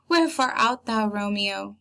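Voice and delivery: theatrical Juliet delivery. Acted. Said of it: "Juliet then says".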